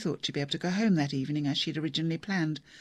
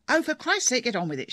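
sharp, much higher burst; narrated shout; 7 semitones higher, 5 dB louder than usual. A narrator's reading. Daughter losing patience with her father, shouting. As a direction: snap it out in exasperation. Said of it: "she shouted".

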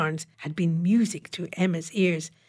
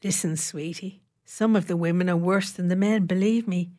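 grim. Acted. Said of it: "Jill Sinclair said grimly".

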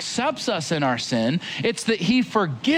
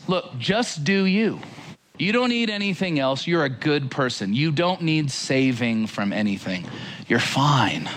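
lightly voiced easygoing reassurance, sinking lower; loving-sounding false Jesus; 3 semitones lower than usual. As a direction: gently mimic a falsely comforting messenger, settling low. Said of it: "He sounds a little like this".

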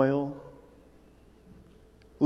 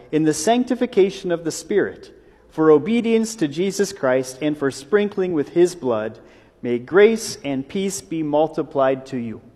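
measured formal reading of the letter; a plain, lightly formal Bible reading; scripture reading. Acted. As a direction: read it out like the lesson from the lectern. Reads the scripture passage aloud.

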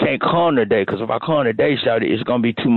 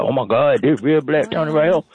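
excited coworker; 5 semitones higher than usual. Retold or imitated. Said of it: "She gonna be excited, like".

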